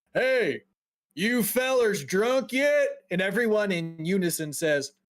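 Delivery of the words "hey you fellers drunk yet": high, loud hollering. Voicing the bartender calling out to the whole bar: bartender yelling out loud. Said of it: "he yells out loud".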